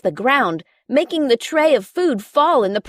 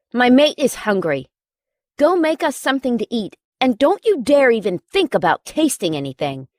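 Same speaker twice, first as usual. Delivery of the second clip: alpha yell. Acted. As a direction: lay down the law like a pack leader. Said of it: "he yelled in his alpha tone".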